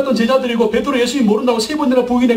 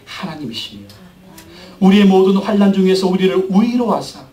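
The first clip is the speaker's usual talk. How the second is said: scripture reading. Acted. Pastor reading Corinthians to the congregation, solemn scripture reading. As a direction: read the verse with solemn weight.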